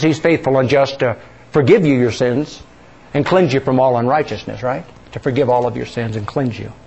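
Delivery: usual speaking voice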